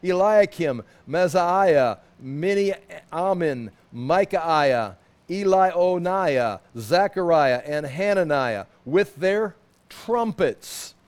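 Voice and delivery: slow, careful reading of names; reading a name list. Acted. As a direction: sound out each name deliberately.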